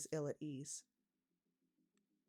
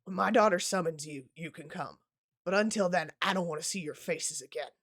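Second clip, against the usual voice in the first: louder, curt dismissal; cold, firm warning to suitors; stern angry father; 6 dB louder than usual. Acted. Ferrier throws them out.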